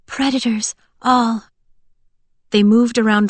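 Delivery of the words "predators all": usual speaking voice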